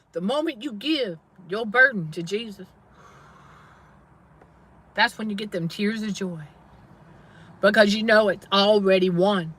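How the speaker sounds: a real touch of tears, hushed; teary-eyed. Real, not acted. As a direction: let the tears of joy come through quietly. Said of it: "I'm getting a little teary-eyed".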